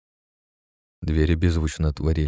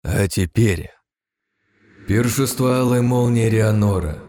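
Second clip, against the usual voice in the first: spell name; 5 semitones higher, 4 dB louder than usual. A narrator's reading. Naming the final spell.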